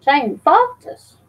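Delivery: slow drawn-out Cali voice. Retold or imitated. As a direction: stretch the name out like Cali. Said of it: "That's how Cali would say it".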